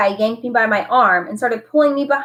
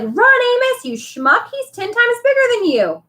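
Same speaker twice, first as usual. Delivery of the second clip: retold panicked shout; 14 semitones higher than usual. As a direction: replay the panic for laughs. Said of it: "I was like".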